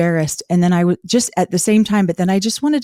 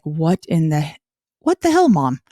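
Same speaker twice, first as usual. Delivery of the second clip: put-on shocked kids; 3 semitones higher than usual. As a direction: play stunned teenagers. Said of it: "my kids are like".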